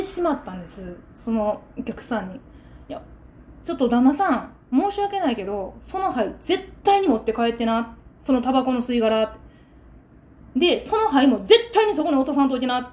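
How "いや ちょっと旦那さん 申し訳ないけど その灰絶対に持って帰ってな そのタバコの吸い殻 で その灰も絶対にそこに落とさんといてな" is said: re-enacted firm, blunt warning; stern telling-off. Seller telling a smoking customer about his ash, sternly. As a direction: lay down the rule with emphatic insistence. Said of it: "もうこの口調で言いました".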